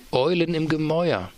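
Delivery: a nervous clerk daring to name his show; lightly voiced shy underling. A narrator's reading. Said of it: "sagte Kochi schüchtern".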